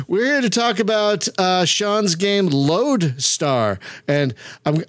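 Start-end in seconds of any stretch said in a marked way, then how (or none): 2.5-3.8 "Lodestar" said slowly with a firm D in the middle; stress on the D. Shown as a demonstration. Host naming the guest's game, stressing the D in "Lodestar". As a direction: lean on the D in "Lodestar" so it isn't "Lone Star". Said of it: "I'm emphasizing the D".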